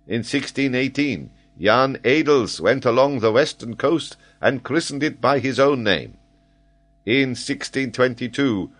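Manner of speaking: eager lecturing geographer. Acted. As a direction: reel off discoveries with proud authority. Geographer lectures name after name.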